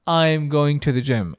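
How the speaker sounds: I'm going to the gym said very slowly, each word clear; slow example sentence. Shown as a demonstration. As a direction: model the sentence slowly for the class. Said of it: "تلاحظ هنا أنا ما قلت". (جملة مثال بطيئة وواضحة)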